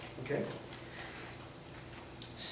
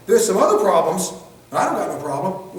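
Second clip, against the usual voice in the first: defiant retort; 6 dB louder than usual. Retold or imitated. Suspect tells officer he has no problem, defiant and loud. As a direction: bristle like a suspect who sees no problem.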